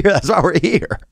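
put-on old dude. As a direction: hold the old guy voice steady. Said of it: "we get rid of old dude".

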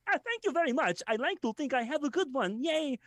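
high, put-on sweet voice; cutesy thank-you; mock bashful thanks. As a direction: gush like a flattered goof. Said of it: "I'm like".

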